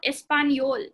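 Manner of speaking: "español" said es-pan-YOL; N-Y sound. Shown as a demonstration. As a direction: let the n of "español" glide into y. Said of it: "So it's N Y".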